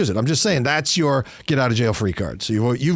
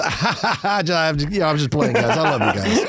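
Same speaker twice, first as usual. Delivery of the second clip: laughing backpedal. Retold or imitated. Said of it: "back it up with".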